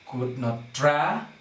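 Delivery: "could not tra" building to a rising, held "tra"; light "could not", then lean on "tra" and stop; stress on TRA. Shown as a demonstration. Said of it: "so stress is here".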